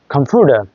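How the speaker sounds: কম্পিউটার with the T tapped like D; flapped T. Shown as a demonstration. Teacher showing American flap in কম্পিউটার. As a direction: say কম্পিউটার as compuder. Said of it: "American অ্যাকসেন্টে".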